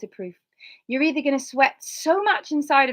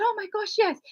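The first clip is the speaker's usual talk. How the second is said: eager yes; 12 semitones higher than usual. Retold or imitated. Her eager answer retold.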